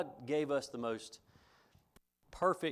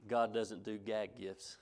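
slow, laughing through the punchline; a light laugh breaking into the retort; deadpan wife's comeback; slower than usual. Retold or imitated. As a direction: tease the husband, giggling. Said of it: "she replied back".

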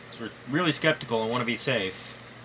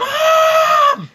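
high, loud call across the house; yelling for mom; 12 dB louder than usual. Real, not acted. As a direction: shout for mom. Calling out to his mom.

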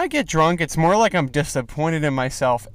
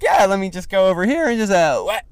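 breezy mock puker; 5 semitones higher than usual. Imitates people who vomit at will.

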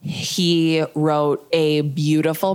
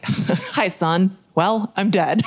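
awkward mock letter-dictation, higher pitched; Aaron; 4 semitones higher, much slower than usual. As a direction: imitate an uncomfortable attempt at a farewell letter. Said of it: "He was so uncomfortable".

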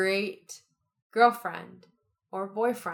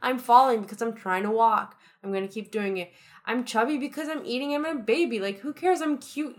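a hint of a high, carefree baby voice; 4 semitones higher than usual. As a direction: lightly voice a content baby who doesn't care. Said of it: "They're like".

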